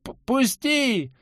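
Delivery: very high, loud frantic yell; frantic scream. Acted. Anton breaks free screaming for Lilya, frantic scream. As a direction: scream beyond yourself. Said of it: "не своим голосом на всю округу заорал Антон".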